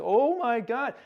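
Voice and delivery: high-pitched mock dismay; retold shock. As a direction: act out stunned disbelief. Retold shock at being shot.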